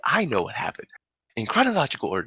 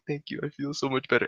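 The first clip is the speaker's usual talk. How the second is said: higher, softer mock relief; imitated drunk gratitude; 5 semitones higher, 4 dB quieter than usual. Drunk friend thanks girl holding his hands, high mock-grateful voice. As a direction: act pitifully grateful.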